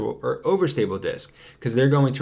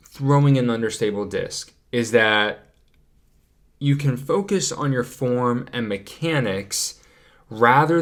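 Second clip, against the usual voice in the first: slow, deliberate, with careful pauses; nice and slow. Real, not acted. Coach introducing the next key point, nice and slow. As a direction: spell out the point slowly and carefully. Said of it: "I wanted to say that nice and slow".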